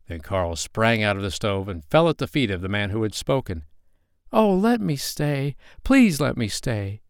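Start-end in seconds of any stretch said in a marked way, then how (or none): 4.3-7.0 put-on high, slow child's plea; drawn-out, imploring young voice; pleading child. A narrator's reading. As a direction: beg like a little boy. Child begs the man.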